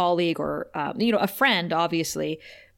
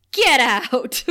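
starstruck brush-off; 4 semitones higher, 5 dB louder than usual. Retold or imitated. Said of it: "I love that line".

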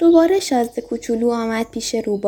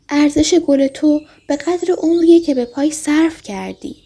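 higher, lightly emphatic telling; teaching fox; 4 semitones higher than usual. Acted. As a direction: impart it as a lesson to remember. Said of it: "برای آن که یادش بماند تکرار کرد".

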